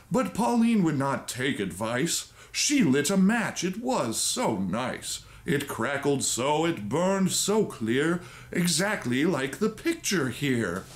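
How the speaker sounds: a hammed-up bedtime story reading; storybook reading. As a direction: read it like a dramatic old storybook. Reads the story aloud.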